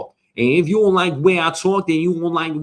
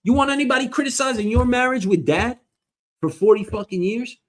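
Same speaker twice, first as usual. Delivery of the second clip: retold scolding; 9 semitones higher than usual. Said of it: "I was like".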